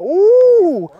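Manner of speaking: ordinary talk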